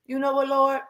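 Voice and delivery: lightly voiced sulky yes, Lord; grudging agreement. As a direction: admit he's right though you don't like it. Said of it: "you couldn't do nothing but be like".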